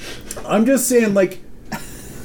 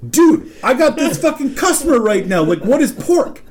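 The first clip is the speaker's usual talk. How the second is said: higher, pressed coworker's appeal; urgent plea; 4 semitones higher than usual. Retold or imitated. Coworker with a customer waiting, retold urgent plea. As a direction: imitate someone needing an answer right now.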